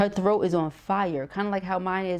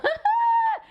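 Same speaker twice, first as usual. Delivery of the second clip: high-pitched burst of laughter; loud, very high cackle; 5 dB louder than usual. Real, not acted. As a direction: squeal with laughter at your own joke. Laughs at own wordplay.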